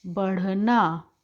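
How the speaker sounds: बढ़ना stretched slowly with an aspirated flap; careful, slowed-down pronunciation; slow teaching word. Shown as a demonstration. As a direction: model बढ़ना slowly for the class. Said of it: "तो उच्चारण हो जाता है ढ़".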